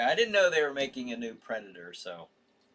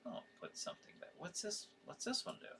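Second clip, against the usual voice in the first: whispered, fast self-talk; muttering to himself; 6 semitones higher, 18 dB quieter, faster than usual. Real, not acted. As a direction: mutter while fiddling with the screen. Tinkering on computer, talking to himself.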